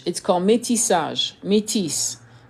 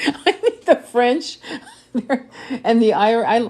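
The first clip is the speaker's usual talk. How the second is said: laughing through the words, higher pitched; real laughter; 5 semitones higher than usual. Real, not acted. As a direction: crack up and struggle to finish. Cracks up while talking.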